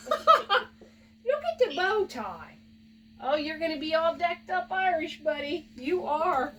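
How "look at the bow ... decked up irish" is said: laughing coo. Real, not acted. Cooing over dog's bow tie.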